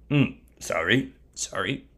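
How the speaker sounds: low, soft, muttered sorry; apologise, embarrassed at the slip; small, flustered voice; sheepish apology. Acted. Bilam apologises for singing.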